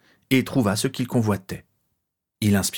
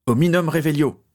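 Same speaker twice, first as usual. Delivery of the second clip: spell casting; 7 semitones higher, 4 dB louder than usual. A narrator's reading. Character casts a spell again.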